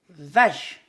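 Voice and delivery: loud, single beat VACHE; syllable demo. Shown as a demonstration. Teacher to kids, one clear syllable. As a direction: clap it out as one syllable for children. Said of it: "Une syllabe".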